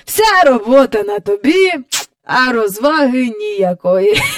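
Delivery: lightly voiced cackling old man; a hint of a scornful old croaker; croaking great-grandfather. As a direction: grumble as a croaky old man, chuckling between phrases. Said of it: "каркнув прадідусь".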